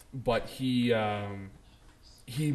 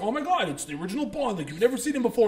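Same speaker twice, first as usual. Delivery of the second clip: higher, gushing fan imitation; mock excitement; 8 semitones higher, faster than usual. Fans greeting the original Bond's return, mock excitement. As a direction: hype it up like an amazed fan.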